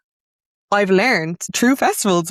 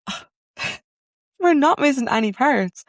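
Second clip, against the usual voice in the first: laughing realisation; 9 semitones higher than usual. Retold or imitated. Realising they built it backwards.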